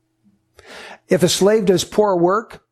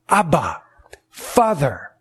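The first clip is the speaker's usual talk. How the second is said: tender cry; 3 semitones lower, slower than usual. Shown as a demonstration. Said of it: "preacher models the cry softly".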